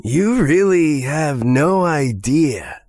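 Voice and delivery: understated villainous threat; chilling menace. Acted. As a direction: draw it out slowly, with menace. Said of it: "Something about his voice made the hairs".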